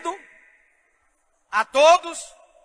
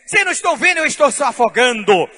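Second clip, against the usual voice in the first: exasperated shout; 3 semitones higher, 9 dB louder, faster than usual. Retold or imitated. Drowning boy answers friends.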